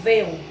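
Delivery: "veu" loud and low on its own; strong syllable. Shown as a demonstration. Teacher isolating the strongest syllable, a stressed lone "veu". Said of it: "E a sílaba mais forte".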